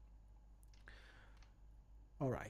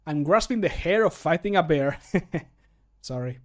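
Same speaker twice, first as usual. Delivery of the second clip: punning line trailing into a sheepish laugh; pun, laugh, sorry; 4 dB louder than usual. Acted. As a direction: laugh at your own pun before apologizing. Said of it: "he laughs and then says sorry".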